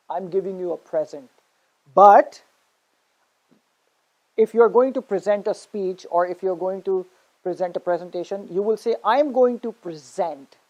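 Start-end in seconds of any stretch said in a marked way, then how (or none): 0.1-1.3 PREsent, stressed on the first syllable. Shown as a demonstration. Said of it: "stress on the first syllable". 9.0-10.6 preSENT, stressed on the second syllable. Shown as a demonstration. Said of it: "stress on the second syllable".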